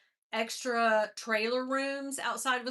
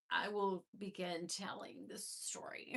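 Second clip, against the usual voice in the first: breathy teasing whisper; 4 semitones lower, 9 dB quieter than usual. Pretend. Teasing livestream viewers before the story, in a whisper. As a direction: lean in and whisper the promise.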